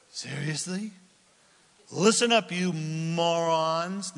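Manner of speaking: a touch of weary disbelief, drawn out slowly; exasperated. Acted. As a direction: sigh it at people you're sick of. Moses' exasperated version.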